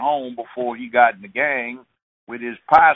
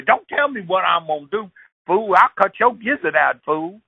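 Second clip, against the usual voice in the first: high, louder challenge; high loud hothead picking a fight; hothead boyfriend; 7 semitones higher, 3 dB louder than usual. Retold or imitated. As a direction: bark it at a stranger. Boyfriend threatening with knife.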